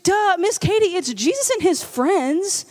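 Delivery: lightly voiced know-it-all little girl; duh, as if it's obvious; bratty toddler. Babysitter voicing the girl explaining her drawing, mildly childlike.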